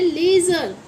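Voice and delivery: लेजर as LAY-zer; LAY-zer, z sound in लेजर; demonstrating pronunciation. Shown as a demonstration. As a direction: model लेजर with a long ay. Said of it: "इसकी pronunciation है".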